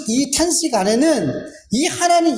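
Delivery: usual speaking voice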